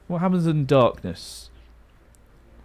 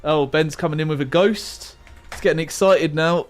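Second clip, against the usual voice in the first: StarCraft commentator; 3 semitones higher, 3 dB louder than usual. Pretend. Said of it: "I've turned into a StarCraft commentator".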